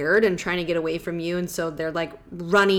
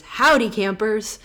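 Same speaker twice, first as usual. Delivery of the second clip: slow, louder mock New Zealand greeting; South Island New Zealand accent; 4 semitones higher, 5 dB louder than usual. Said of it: "deep Southern South Island New Zealand accent".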